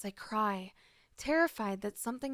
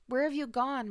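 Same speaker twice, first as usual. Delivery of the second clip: loud, higher cry into the house; desperate call; 4 semitones higher, 6 dB louder than usual. Acted. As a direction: call out for the lost children. Mother calling for lost babies.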